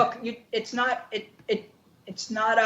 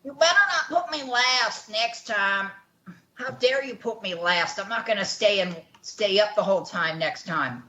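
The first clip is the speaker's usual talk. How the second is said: put-on half-hearted British accent, mildly indignant; bad British accent. Host mimicking Andy's complaint about going last, shaky British accent. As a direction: try a British accent, not very well. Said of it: "British accent's not very good right now".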